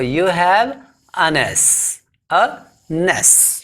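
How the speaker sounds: "a ness" with the n carried over onto "S"; spoken-style demo of "a ness"; linked "an S" as "a ness". Shown as a demonstration. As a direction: run "an" into "S" so it sounds like "a ness". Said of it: "इसका pronunciation है".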